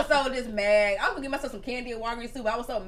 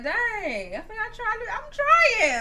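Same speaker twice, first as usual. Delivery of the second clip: high-pitched, upset protest; retold exasperation, pitch climbing sharply; 10 semitones higher, much slower than usual. Mom recalling being hurt by her son, upset. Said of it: "I was, like, upset".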